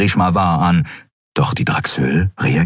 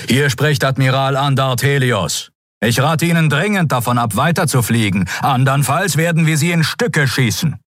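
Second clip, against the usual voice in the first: higher, hard commanding warning; stern admiral warning; 8 semitones higher than usual. A narrator's reading. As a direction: threaten them firmly over the radio. Admiral warns over the channel.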